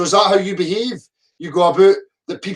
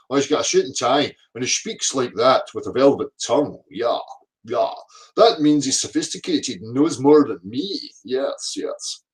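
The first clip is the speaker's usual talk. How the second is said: lower, dopey voice sinking to a breathy yes; a dim believer being lightly mocked; mocking the gullible; 5 semitones lower than usual. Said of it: "mocking what gullible people say".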